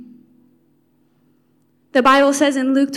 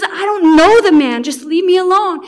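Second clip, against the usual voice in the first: a louder, sharp rejection; fierce denial; 3 semitones higher, 5 dB louder than usual. Acted. Peter to the bystanders, rejecting Jesus loudly. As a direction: push them away in panic.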